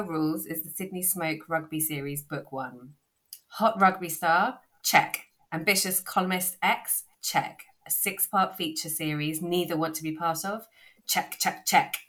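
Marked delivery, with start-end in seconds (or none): 3.5-12.0 blurb reading. Acted. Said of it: "in my lovely British accent".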